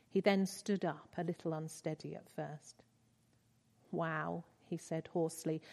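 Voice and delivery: measured, earnest reading of a novel passage; gentle read-aloud storytelling; story reading. Acted. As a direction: read it like a moving story to the congregation.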